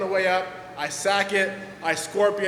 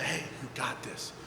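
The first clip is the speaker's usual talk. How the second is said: softer, lower, steady encouragement; calm a scared son down; a dad talking his son back into skating, softly; reassuring dad; 3 semitones lower, 6 dB quieter than usual. Retold or imitated. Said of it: "my dad's like".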